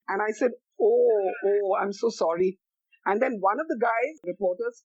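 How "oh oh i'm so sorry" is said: a touch of flustered sorry, first oh louder; mild embarrassed apology. Retold or imitated. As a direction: lightly act out the embarrassed newcomer apologizing. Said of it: "I got really very embarrassed".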